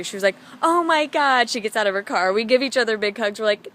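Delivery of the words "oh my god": high, loud retold exclamation; excited relief. Stranger learning someone else came to cry too, excited exclamation. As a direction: imitate an overjoyed outburst.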